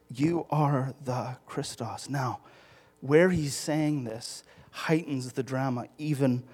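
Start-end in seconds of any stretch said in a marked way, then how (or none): 0.1-2.1 "You" in "You are the Christos" leaned on, every word slow and soft; slow firm statement. Shown as a demonstration. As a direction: spell it out slowly, weight on "You". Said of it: "It's, it's very clear".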